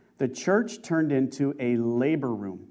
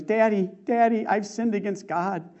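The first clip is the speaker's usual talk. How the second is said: anguish; 5 semitones higher than usual. Retold or imitated. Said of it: "pouring out in anguish".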